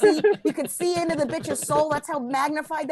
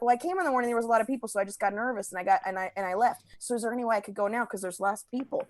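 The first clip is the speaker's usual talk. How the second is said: lightly voiced old lady, softer and lower; little old lady; 4 semitones lower, 6 dB quieter, faster than usual. Old lady asking the clerk to go now, lightly voiced and meek. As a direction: plead softly, a hint of timid old lady. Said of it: "tiny little old lady".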